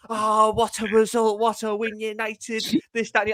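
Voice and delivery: lightly mock a celebrating pundit; Rio Ferdinand. Fan mimics a pundit hyping United's win, mock-elated. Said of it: "Rio Ferdinand's going".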